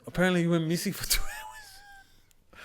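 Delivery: imitating Tyson. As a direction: pitch it way up, teasing. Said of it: "He goes".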